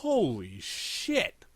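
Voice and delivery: slow, drawn-out shock; stunned. Real, not acted. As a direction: let the shock sink in slowly. Reacting to an ugly character.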